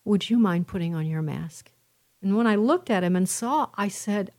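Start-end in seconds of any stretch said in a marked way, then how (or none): 0.0-1.7 kindly. Retold or imitated. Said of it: "he said very kindly".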